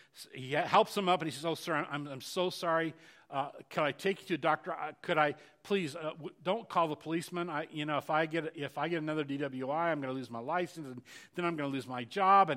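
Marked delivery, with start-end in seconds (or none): 1.5-12.5 play-acted begging tone, stammering and stumbling over words. Retelling a driver's words to a man he hit: imitating someone begging. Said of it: "right away he goes into this begging stance".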